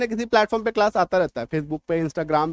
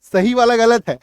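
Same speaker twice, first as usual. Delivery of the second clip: mock insistence, a little louder; stubborn insisting learner; 2 semitones higher, 5 dB louder than usual. Teacher imitates a learner insisting the wrong form is right. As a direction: play the sure-of-himself learner who defends the wrong form. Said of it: "इन्हें ज्यादा convincing लगता है".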